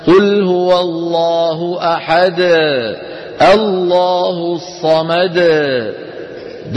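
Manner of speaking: slow sung recitation dragging out the final د of أحد and الصمد; overstretched qalqala. Shown as a demonstration. Teacher mimics students who overstretch the dal. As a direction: stretch the bounce far too long. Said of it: "فنسمع من بعض إخواننا".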